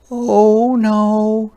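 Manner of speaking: high, loud alarmed cry; high alarmed hedgehog cry. A narrator's reading. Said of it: "she cried".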